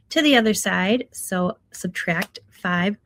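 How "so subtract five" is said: slow words through a yawn. Real, not acted. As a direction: say it mid-yawn, slowly. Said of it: "ooh, pardon my yawn".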